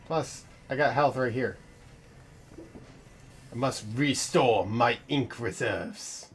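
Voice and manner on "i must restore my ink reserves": mock robotic voice. Imitating a game character line.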